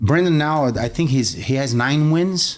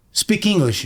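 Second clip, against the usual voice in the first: higher-pitched mock order; retold demand; 6 semitones higher than usual. Stranger confronting a man speaking Portuguese on the subway, demanding.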